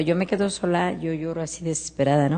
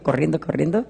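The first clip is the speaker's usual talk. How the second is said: ordinary talk, nothing marked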